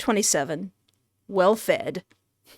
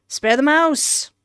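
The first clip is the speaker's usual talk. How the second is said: raised-pitch, firm plea; insistent plea; 5 semitones higher than usual. Acted. Player telling the narrator to save the mouse, insistent plea. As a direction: say it higher, as a quick insistent choice.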